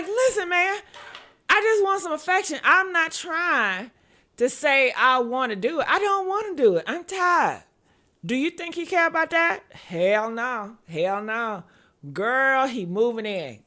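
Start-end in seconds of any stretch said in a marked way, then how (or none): 0.1-7.6 mild protest. Retold or imitated. Acted protest to her man.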